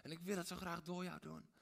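put-on God pleading softly with his child; tender God. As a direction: coax the listener lovingly. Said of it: "God zegt".

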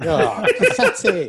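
scornful. Retold or imitated. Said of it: "you're like".

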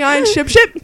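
"ship ship" loud and high, vowel shortened; "ship ship" said teasingly for shapeshift; mocking a mispronunciation. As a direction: imitate a friend's slip on "ship ship". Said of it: "You're like".

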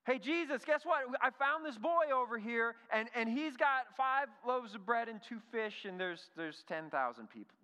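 high, loud, excited announcement losing steam; imagined eager Andrew. Acted. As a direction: burst in with a big discovery, then falter. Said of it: "I wonder if Andrew's sitting there like".

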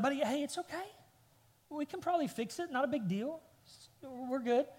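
light, easy comforting voice; soothing dad. Retold or imitated. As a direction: play a dad calming his upset boy. Dad soothing his upset son.

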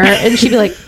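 ordinary talk

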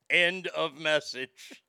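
slowly read-out cue, mock teleprompter. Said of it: "He kept reading it like Ron Burgundy".

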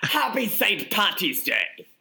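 a mock Irish accent, slow and high; a shaky stab at an Irish lilt; Irish accent attempt. Shown as a demonstration. Host shows off his Irish accent to cohost, mock Irish. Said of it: "what accent am I doing?".

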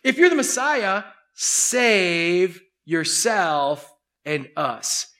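slow, dragged-out sneer; a slow jeer at the Messiah; drawn-out mocking taunt. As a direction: taunt a dying man, stretching each word. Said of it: "He's making fun of him".

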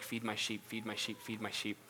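gentle Jesus. Retold or imitated. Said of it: "Jesus is like".

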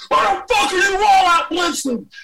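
yelling at the TV again; retold scream. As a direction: scream it at the screen. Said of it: "I was screaming through my".

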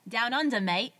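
light Australian accent, played for fun; attempted Australian accent. Greeting listeners down under, attempted Australian accent. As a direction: have an amateur go at Australian. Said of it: "if that's a good accent".

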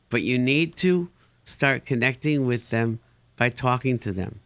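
ordinary talk, nothing marked

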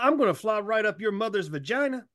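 lightly voiced Tracy Morgan; Tracy Morgan impression. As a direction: loose Tracy Morgan imitation. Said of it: "That's some Tracy Morgan thing".

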